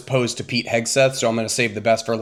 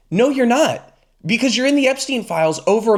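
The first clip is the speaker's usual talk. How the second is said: exasperated retort; 10 semitones higher, 3 dB louder than usual. Real, not acted. Rebutting Trump's claim.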